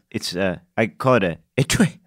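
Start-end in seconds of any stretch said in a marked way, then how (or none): 1.6-2.0 etui said as a spat eh-TWEE; spitting pronunciation. Acted. Traveller naming his bag, etui said like spitting. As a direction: spit out etui in two quick syllables. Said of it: "I think you just spit".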